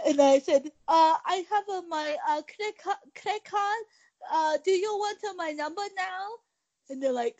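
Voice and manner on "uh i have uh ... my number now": high, halting mock Asian accent; stumbling caricatured Asian accent; fake Asian accent. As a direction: fumble along in a pitched-up fake Asian accent. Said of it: "fake Asian accent".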